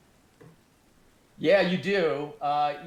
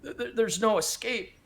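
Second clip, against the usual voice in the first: high, stammering, panicked pleading; a cornered man about to cry, voice jumping up; terrified, near tears; 8 semitones higher than usual. Acted. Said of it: "you start to see tears in his eyes".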